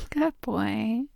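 ordinary talk

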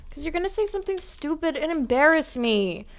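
ordinary talk, nothing marked

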